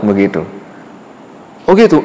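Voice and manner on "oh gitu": mock surprise. Rasul answers boy.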